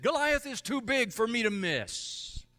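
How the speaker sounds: bold, high confident boast; confident David. Retold or imitated. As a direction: say it like a fearless David. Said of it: "David said".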